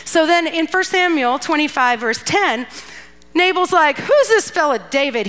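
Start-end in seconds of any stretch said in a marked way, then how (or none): 4.0-5.3 a mild retold sneer; lightly mock sneer at the messenger. Nabal dismissing David's young men, mildly sneering. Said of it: "He sneered to the young men".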